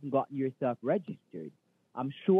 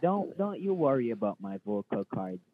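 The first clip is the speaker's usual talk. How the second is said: a lower, put-on manager voice, thinly disguised; fake manager voice; 6 semitones lower than usual. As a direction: pose as the boss with a dropped voice. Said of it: "it can be hard on your vocal cords to talk".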